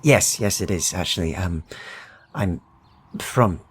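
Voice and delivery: friendly stranger nosing in on the locals; Midlander trader. Acted. GM voices the trader.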